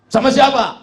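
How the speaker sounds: high, loud mock demand; tuyul's sharp question. Acted tuyul questions the complainer.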